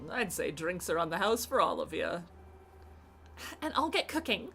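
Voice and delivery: bright, lively innkeeper voice; cheerful host welcoming guests; character voice. Acted. Reads game character dialogue aloud.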